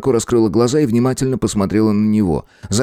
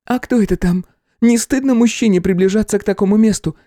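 indignant woman, higher; angry; 13 semitones higher than usual. A narrator's reading. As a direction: scold him sharply. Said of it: "сердито ответила Нуй".

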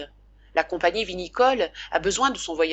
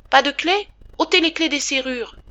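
much higher and louder, a delirious shout; feverish cry; 8 semitones higher, 7 dB louder than usual. Retold or imitated. Father acting out his son's delirious cry about the keys. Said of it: "tu criais".

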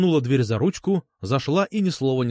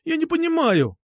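put-on high-pitched girl's outcry; mild, high-voiced yell; crying out. A narrator's reading. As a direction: cry it out high, in protest. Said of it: "крикнула Настя".

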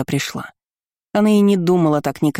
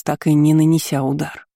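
usual speaking voice

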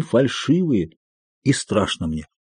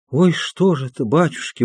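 horrified mutter; 3 semitones higher, 3 dB quieter than usual. A narrator's reading. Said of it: "бормотала она в ужасе".

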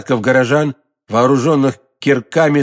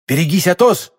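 shouting; 4 semitones higher than usual. Acted. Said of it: "крикнул Д'Артаньян".

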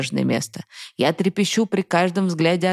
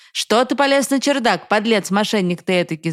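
shouting father; 5 semitones higher than usual. Acted. Father catching son in the attic, angry shout. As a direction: catch the boy in the attic and bellow at him. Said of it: "закричал отец".

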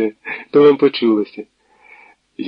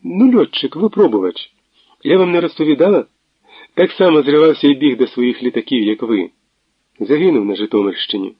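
higher, louder, laughing delivery; laughing chatter; 4 semitones higher, 4 dB louder than usual. Acted. Natalia laughs while telling Tverdokhlib about the pilot. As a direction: rattle it off through laughter. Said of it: "Вона сміялася довго і охоче".

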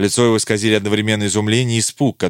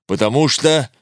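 stern, roaring потому что; the roar still holding on потому что; 4 semitones higher than usual. A narrator's reading. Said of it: "Львиное рычание внезапно сменилось".

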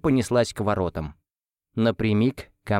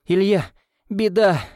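loud, high alarmed cry; 9 semitones higher, 4 dB louder than usual. A narrator's reading. Nanny runs up to Ilya with bad news, shouting. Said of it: "снова закричала няня".

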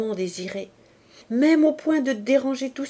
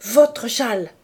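sharp, louder, furious retort; 6 dB louder, slower than usual. Acted. Woman furious at her lover's offer of a shawl, furious. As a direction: snap it back in a rage. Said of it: "tout à fait furieuse".

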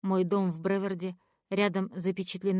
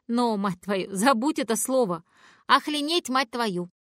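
louder, higher scolding; 3 semitones higher, 5 dB louder than usual. Acted. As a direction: tell the kid off, exploding. Scolding the child for swearing. (громкий упрёк, срываясь на крик)

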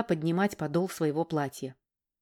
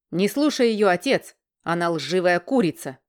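angry outburst; 5 dB louder than usual. Acted. Son interrupts, insulting her.

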